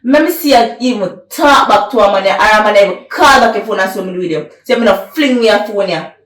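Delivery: loud, hard scolding, jabbing every line; angry scolding. Acted. Jealous man scolds his woman, loud and angry. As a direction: lay down the law, fuming. Jealous partner lays down rules.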